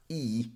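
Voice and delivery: "E" as a long tense ee; tense E sound. Shown as a demonstration. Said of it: "This is a tense sound".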